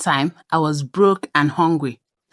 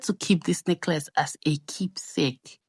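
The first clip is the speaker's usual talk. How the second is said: whisper; 8 dB quieter than usual. Real, not acted. Closing thought on the necklace.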